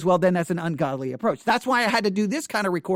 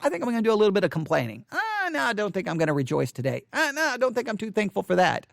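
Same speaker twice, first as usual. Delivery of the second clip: fast, whiny put-on complaining; mock grumbling; faster than usual. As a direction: play the reluctant believer sulking. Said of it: "all of a sudden you're like".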